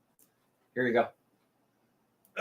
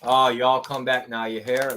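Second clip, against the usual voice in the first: mock Southern. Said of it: "That Southern voice".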